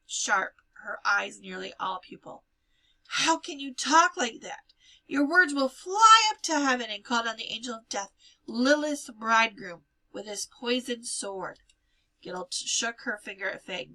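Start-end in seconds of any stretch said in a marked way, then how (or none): 3.1-11.6 horrified rebuke. Acted. Frightened bride scolding Hannah.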